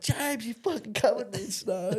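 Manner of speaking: high, squealing protest through laughter; laughing complaint. Retold or imitated. Maddie scolding James after the snow dump, laughing. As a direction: laugh while you scold him. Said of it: "And Maddie's like".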